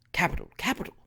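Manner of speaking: soft, hushed praise; whispered approval. Acted. Mayor secretly praising Trott's act, hushed whisper. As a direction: murmur approval under the breath. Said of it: "whispered Overton again".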